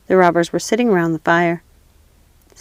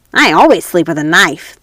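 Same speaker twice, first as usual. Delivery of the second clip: louder, gleeful menace; robber girl; 2 semitones lower, 5 dB louder than usual. Acted. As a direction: relish the knife, cruelly playful.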